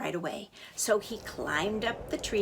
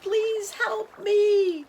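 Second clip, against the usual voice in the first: slow, high, loud gurgled plea; gurgling plea; 12 semitones higher, 7 dB louder, much slower than usual. A narrator's reading. River gurgling slowly to the chick. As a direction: drag it out like bubbling water. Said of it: "so it gurgled".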